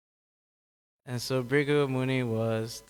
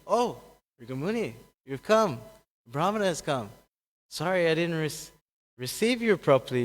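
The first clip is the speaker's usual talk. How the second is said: higher-pitched, apologetic greeting; humble welcome; 4 semitones higher than usual. Acted. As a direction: welcome an honored guest with an apology. Vishnu humbly welcomes the sage.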